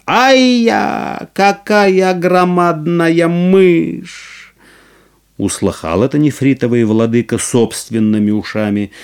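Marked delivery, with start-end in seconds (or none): 0.1-4.5 high, slow amazed cry; crowd shouting. Acted. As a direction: exclaim in amazement, drawn out. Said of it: "как закричат".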